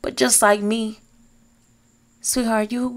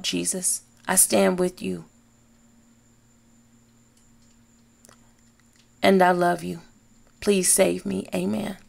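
spoken prayer. Shown as a demonstration. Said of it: "I'm gonna say it once so you can hear it".

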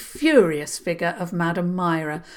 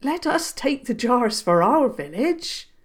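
firm; 6 semitones higher than usual. Acted. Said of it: "Granny Cavan said firmly".

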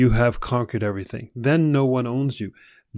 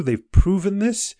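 emphatic assertion; 8 semitones higher than usual. Real, not acted. Stressing a health claim.

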